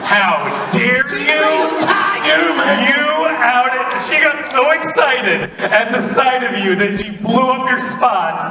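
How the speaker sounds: high, loud, hammed-up indignation; mock outraged shout. Actor scolding someone for outing another, escalating mock outrage. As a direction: raise the pitch and shout in pretend offence.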